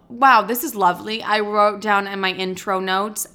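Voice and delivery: ordinary talk, nothing marked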